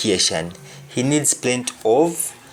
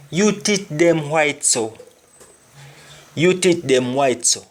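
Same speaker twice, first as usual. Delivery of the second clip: "teeth" said "tit", Jamaican patois with no th; 3 semitones higher than usual. Shown as a demonstration. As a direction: model it in patois, t for th. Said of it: "Your teeth are so white".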